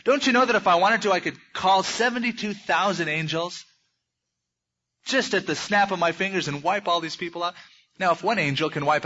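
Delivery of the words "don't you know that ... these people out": Jesus' challenge. Acted. Preacher voicing Jesus daring the soldiers, raised and insistent. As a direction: throw the question back at them.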